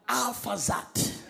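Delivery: "Arphaxad" drawn out slowly in his own accent; own tongue's pronunciation. Shown as a demonstration. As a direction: say "Arphaxad" slowly, refusing the British way. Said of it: "I refuse to say the way Pastor Paul said it".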